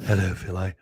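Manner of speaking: Linda impression. Co-host playing Phil's mother greeting him, light impression. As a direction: put on a hint of a mother's low reproach. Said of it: "That's how Linda talks".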